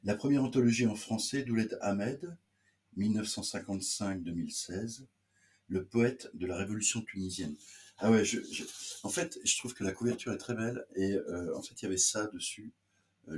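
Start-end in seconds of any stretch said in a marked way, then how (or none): 0.0-7.6 formal back-cover reading; measured, announced read-aloud voice. Acted. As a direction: read the book's blurb out to listeners. Je lis le quatrième de couverture.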